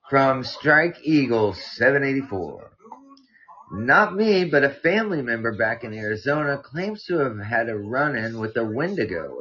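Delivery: measured read-aloud with lively emphasis; story narration. A narrator's reading. Podcast host reading a listener's mountain scare, story narration. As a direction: read out a spooky tale clearly.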